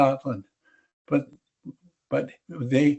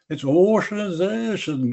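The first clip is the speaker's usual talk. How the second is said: put-on Russian accent; 6 semitones higher than usual. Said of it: "do a Russian accent".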